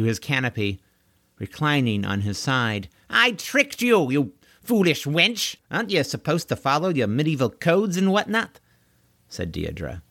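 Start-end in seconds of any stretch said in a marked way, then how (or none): 3.1-8.6 pompous knight voice. Acted. Corwin taunts the trapped Deirdre.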